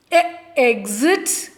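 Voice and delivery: slow, drawn-out E, exit; slow sounding out. Shown as a demonstration. Teacher sounding out the word for young pupils, slow. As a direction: stretch out "E, exit" so each sound is clear.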